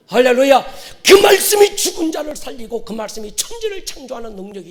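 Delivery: loud, high-pitched sermon delivery; impassioned preacher in full cry; preaching at full force. Real, not acted. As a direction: drive each phrase home to the congregation.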